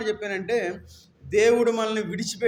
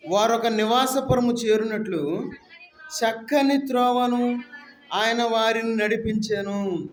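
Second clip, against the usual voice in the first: slow, solemn reading of the verse; scripture reading; slower than usual. Real, not acted. Preacher reads the Psalm verse to the congregation, slow and solemn. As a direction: lay each phrase out slowly for the church. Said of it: "ఏడవ వచనం చదవండి".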